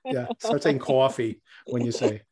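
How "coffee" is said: slow Jersey "coffee"; Jersey accent. Retold or imitated. Host joking about the friend's word, Jersey accent. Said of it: "that Jersey girl dialect".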